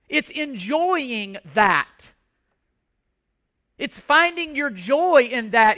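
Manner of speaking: building, emphatic sermon delivery; fervent preaching. Acted. Pastor exhorting the congregation, fervent preaching. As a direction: drive the point home to the congregation.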